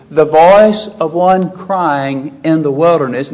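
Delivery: "the voice of one crying" drawn out slowly; slow right down, weighting "voice" and "crying"; deliberate emphasis. Shown as a demonstration. Preacher quoting with reference to Jesus, slow stress on "voice". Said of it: "Emphasize here".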